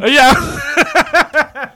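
high, loud, laughing yeah; delighted, laughing outburst; amused agreement. Real, not acted. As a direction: burst into laughter as you agree. Delighted at pictures being sent in.

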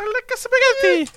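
very high cartoon Italian accent; Mario accent. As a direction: squeak it out as a Mario-style Italian. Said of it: "I tried to do a Mario accent".

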